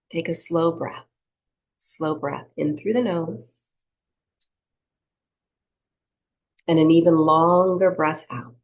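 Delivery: unhurried meditation-teacher delivery; guided breathing meditation. Acted. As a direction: lead them gently through each breath, leaving space.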